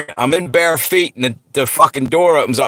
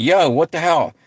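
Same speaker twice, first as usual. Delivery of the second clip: mild mock yell, pitched up; retold yelling; 5 semitones higher than usual. Brother to the man who left food burning, mild mock yell. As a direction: imitate his yelling without much extra volume. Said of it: "he's, he's yelling at me".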